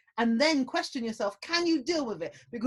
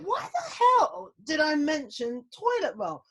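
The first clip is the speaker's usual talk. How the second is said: laughing; 5 semitones higher, 4 dB louder, slower than usual. Retold or imitated. Laughing at her own silly panic.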